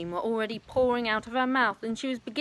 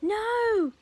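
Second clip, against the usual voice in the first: loud, much higher panicked no; alarmed cry; 6 dB louder than usual. Acted. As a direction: cry out to stop her. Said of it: "cried Missus Cranky".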